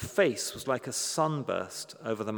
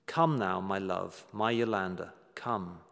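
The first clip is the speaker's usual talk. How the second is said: tender call; 4 semitones lower than usual. Retold or imitated. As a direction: call a loved one tenderly, letting it fall away. Refrain of God's loving call.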